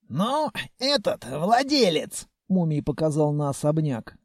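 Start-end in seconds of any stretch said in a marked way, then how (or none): 0.1-2.3 put-on old man voice. A narrator's reading. Old Mumiy recalling.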